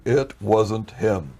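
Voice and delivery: very slow, separated words; imitating God's clear, measured pronouncement; audible and clear. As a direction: spell it out slowly and distinctly. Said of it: "so clearly".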